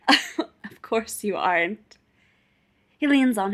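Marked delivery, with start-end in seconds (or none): 0.1-2.0 slow, laughing tipsy reply; hiccupy drunk giggle. A narrator's reading. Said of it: "Feely laughs and hiccups".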